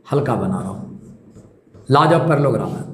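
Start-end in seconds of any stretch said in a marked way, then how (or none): 0.1-0.8 lower, softer, easing the voice down; light and soft. Shown as a demonstration. Teacher showing students a light stroke, said low and soft. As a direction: say it lightly, as if drawing a faint line. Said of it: "देखो मैं हल्का बना रहा हूँ".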